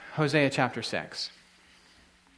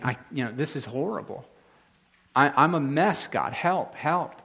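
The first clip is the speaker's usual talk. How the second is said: desperate plea. Acted. Acting a repentant plea to God.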